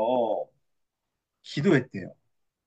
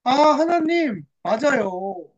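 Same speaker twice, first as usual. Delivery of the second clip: dawning realization. Acted. Hannah grasps Israel's plight before God, dawning realization. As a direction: pray as understanding sinks in. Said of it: "한나에게 하나님이 깨달음을 주셨어요".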